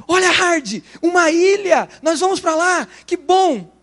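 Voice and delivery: bright, excited lift; cheerful hopeful cartoon lion; cheerful Lip. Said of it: "E o Lip diz".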